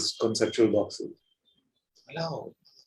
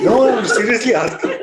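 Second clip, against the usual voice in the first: said through laughter, higher; laughing; 9 semitones higher, 6 dB louder than usual. Real, not acted. Teacher pressing the audience through laughter. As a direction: insist while still laughing.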